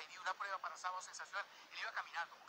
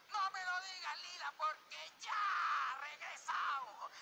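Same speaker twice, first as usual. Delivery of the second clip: TV host; 11 semitones higher, 5 dB louder, much slower than usual. Retold or imitated. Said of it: "Amador inmediatamente interrumpía y decía".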